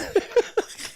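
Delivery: short unvoiced squeal of a laugh; high breathy laugh. Real, not acted. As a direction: laugh high and airy, mocking. Mocking laugh.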